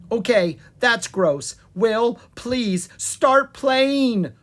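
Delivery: loud, high plea, slowing at the end; beg, building in urgency; urgent pleading. A narrator's reading. Prince pleads with the bard to play, urgently. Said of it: "pleaded Lucas".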